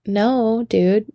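lightly put-on British accent. Bluffing the bar regular, put-on British accent. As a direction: deny it with a hint of British accent. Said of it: "you know, in my accent".

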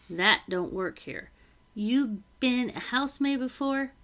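firm servant woman laying down rules; stern housekeeper. Acted. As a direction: set the rules, brisk and firm. Becky lays down the rules.

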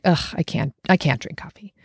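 fed-up ugh, sulky refusal; annoyed groan. Shown as a demonstration. Refusing coffee with a fed-up groan. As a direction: sigh it out like you're missing out. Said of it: "or just like".

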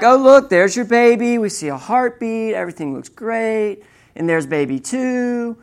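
breeze through big news as if routine; nonchalant. Retold or imitated. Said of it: "you were way too nonchalant about this".

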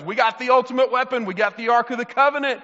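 hyped-up mock war talk; imitated fired-up boasting. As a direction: play soldiers hyped about their secret weapon. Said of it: "they were so fired up".

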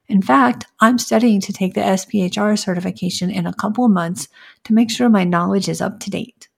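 assured sample interview answer; stronger, confident. Shown as a demonstration. Candidate giving her strong elevator pitch, confident. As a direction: pitch yourself with conviction and excitement. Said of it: "the other that was much stronger".

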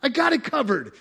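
high, loud, booming sovereign God; amused almighty God; God laughing it off. Acted. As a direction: shout it as the unbothered king of the universe. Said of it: "He goes".

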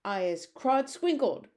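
slow, high giant yowling; giant's yowl. Acted. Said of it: "yowled the blood bottler".

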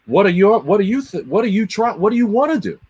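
incredulous restart of the question; exasperated retelling. Retold or imitated. Quoting himself to the brand guy, rising in disbelief.

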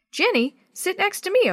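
high, bright eager invitation. Acted. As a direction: pull her in with eager delight. Eager Maria pounces on her.

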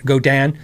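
"Godin" re-said with a full DAN ending; self-corrected pronunciation. Real, not acted. Streamer catching his own slip, "Godin" said as go-DAN. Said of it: "when I think about it".

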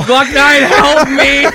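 high, loud plea for help; desperate cry. Pretend. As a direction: call out for rescue. Calling out for help.

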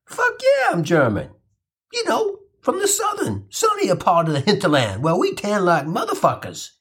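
brash comeback daring them to doubt him; defiant Kinch. Pretend. Kinch answering the Nazi officers, cocky and defiant. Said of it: "Kinch would have responded".

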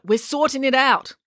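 touch of irritation; snapped. A narrator's reading. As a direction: dismiss them with a mild snap. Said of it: "snapped Georgia".

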